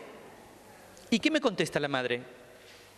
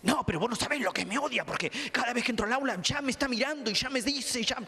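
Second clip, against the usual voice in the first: high, whiny schoolkid complaint; whiny kid; 9 semitones higher than usual. Retold or imitated. Kid whining to the therapist about a teacher. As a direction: play the aggrieved kid who feels picked on.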